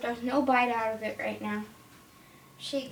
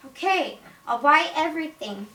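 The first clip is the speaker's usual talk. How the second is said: emphatic make-believe okay; hasty agreement; 3 semitones higher, 5 dB louder than usual. Pretend. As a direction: play a customer caving in. Acted customer giving in to witch.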